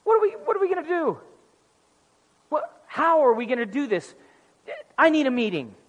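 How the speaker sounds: God in hammed-up helpless panic; mock panic. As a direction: fake a flustered freak-out. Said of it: "why do you say it like that".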